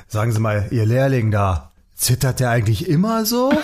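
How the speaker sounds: customer asking. Retold or imitated. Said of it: "Frage an den Elektriker".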